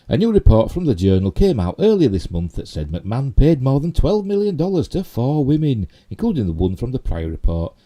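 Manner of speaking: emphatic article reading; projected news-story reading. Real, not acted. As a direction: read the report aloud, stressing key words. Reads news article aloud.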